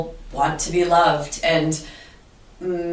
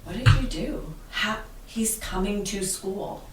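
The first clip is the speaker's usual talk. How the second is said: higher-pitched, mildly incredulous question; imitated amazed teachers; 4 semitones higher, 4 dB quieter than usual. Other teachers to her about the student's turnaround, mildly amazed. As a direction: lightly act out colleagues' disbelief.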